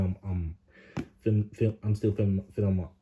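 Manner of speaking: tripping over words; stammering, restarting words; stuttering. Real, not acted. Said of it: "sorry for stuttering".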